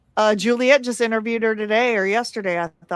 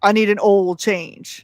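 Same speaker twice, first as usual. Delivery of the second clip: mock Southern accent. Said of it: "when I wanna bring out his Southern accent".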